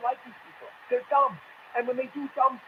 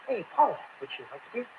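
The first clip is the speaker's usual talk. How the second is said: mocking stiff offer; 2 semitones lower, 5 dB quieter, faster than usual. Host mocks Warren's beer video, quiet stilted parody. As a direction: parody Warren offering her husband a beer, much softer. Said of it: "Who talks like that?".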